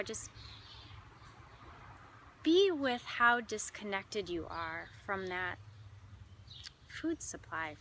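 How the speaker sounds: spacious, measured meditation guiding; guided meditation. Acted. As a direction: invite reflection, leaving pauses between phrases.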